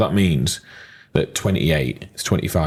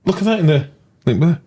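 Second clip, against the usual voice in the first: hammed-up higher call to look below; mock excited plug; 9 semitones higher, 3 dB louder than usual. Co-host nudging viewers to the link, in hammed-up mock excitement. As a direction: point it out like a cheesy advert.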